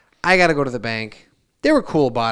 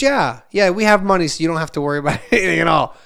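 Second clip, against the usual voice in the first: put-on much higher, louder little girl; chirpy daughter voice; 4 semitones higher, 5 dB louder, faster than usual. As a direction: voice the excited kid proudly. Voicing his young daughter.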